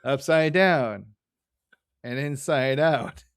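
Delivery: lightly voiced Marge soothing Lisa. Host quotes Marge reassuring Lisa, slow mock reassurance. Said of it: "And Marge replies".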